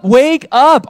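"Wake up" shouted high and loud, both words hammered; shouted call. Acted. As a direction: cry out "Wake up" like an alarm to the congregation. Sermon climax calling the church.

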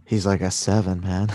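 lazy stoner delivery; tired and stoned. Pretend. Redoing the rating for co-host, stoned voice. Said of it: "sound tired and stoned".

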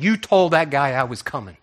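pointed, loud accusation; accusing. Retold or imitated. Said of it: "Just, I mean it, I said it just like that".

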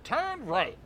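robotic navigation announcer; GPS voice. Acted. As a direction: read it like a sat-nav. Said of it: "you wanna do the G P S voice?".

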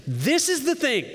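high-pitched, emphatic announcement; dramatic proclamation. Acted. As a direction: proclaim it like a big declaration. Dramatic reading of quoted line.

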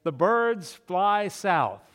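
slow, offhand password line; casual password. Retold or imitated. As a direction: say it slowly, like nothing special. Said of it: "he would just casually say".

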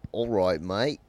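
put-on English accent. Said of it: "your best English accent".

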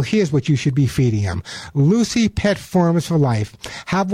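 live sponsor read in the host's own lightly pitched voice; radio ad read. Acted. Radio host pitching pet food to his listeners, light ad read. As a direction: sell the pet food to the listeners, steady and upbeat.

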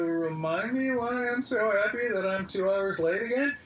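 mock sarcastic. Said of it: "I kinda go".

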